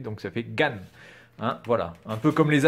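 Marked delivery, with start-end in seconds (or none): 0.4-0.7 gan on a short, fast falling fourth tone. Shown as a demonstration. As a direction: drop gan quickly, fourth tone. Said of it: "le quatrième ton qui descend très vite".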